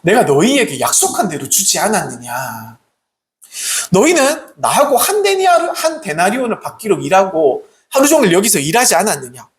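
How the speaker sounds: lightly voiced master reproving his workers; a hint of an authoritative landowner; landowner's reply. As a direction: answer the grumblers as their master. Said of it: "이 집주인이 이렇게 얘기합니다".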